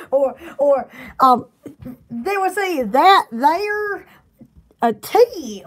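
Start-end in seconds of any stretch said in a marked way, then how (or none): 2.1-5.6 slow Southern drawl, stretched out; Southern slang. Shown as a demonstration. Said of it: "Southern slang".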